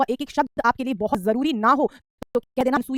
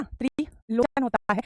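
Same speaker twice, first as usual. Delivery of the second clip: त्रिलोचन spelt out slowly, syllable by syllable; slow dictation; much slower than usual. Shown as a demonstration. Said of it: "teacher repeats slowly". (धीरे-धीरे लिखवाते हुए त्रिलोचन)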